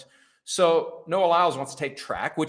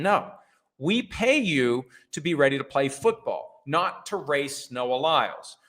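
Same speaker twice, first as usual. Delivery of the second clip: stern team order. Acted. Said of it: "All the Dolphins have to say".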